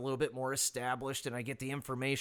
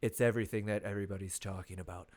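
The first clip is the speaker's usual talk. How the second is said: a hint of Trump, dragging out huge; lightly hammed-up Trump brag; boasting about the land, mock Trump; Trump impression. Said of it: "that was my best Trump impression".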